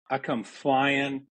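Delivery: slow, drawn-out "I come flying"; slow-motion retelling of "I come flying". Shown as a demonstration. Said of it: "it's in slow motion".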